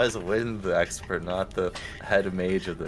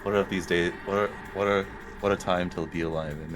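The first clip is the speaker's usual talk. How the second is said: dry sarcastic aside. Retold or imitated. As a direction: say it with a sarcastic edge. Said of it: "In, like, a sarcastic way".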